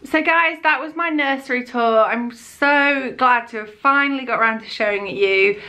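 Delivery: breathless, talking between breaths. Real, not acted. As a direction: speak short of air. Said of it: "I'm sorry I'm so out of breath".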